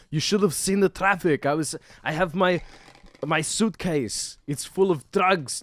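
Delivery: high, loud hammed-up husband voice, slowing on the suitcase; mock husband excuse. Husband making excuses to his wife, high hammed-up whine. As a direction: whine the excuse like a flustered dad. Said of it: "And he's like".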